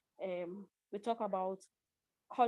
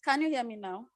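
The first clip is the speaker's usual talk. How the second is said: louder; 2 semitones higher, 7 dB louder, faster than usual. Real, not acted. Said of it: "level your voice".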